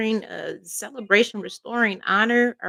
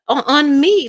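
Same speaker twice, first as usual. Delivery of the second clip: crying; 3 semitones higher, 7 dB louder than usual. Real, not acted. Crying while voicing the king.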